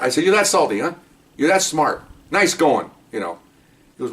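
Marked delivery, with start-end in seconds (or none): 0.2-2.9 sarcastic scolding, pitched up; retold yelling. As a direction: act out chewing him out with sarcasm. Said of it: "And I'm yelling".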